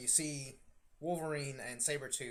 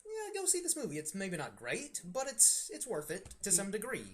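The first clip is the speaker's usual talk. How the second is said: high-pitched fan recommendation; 5 semitones higher than usual. Retold or imitated. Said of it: "were like".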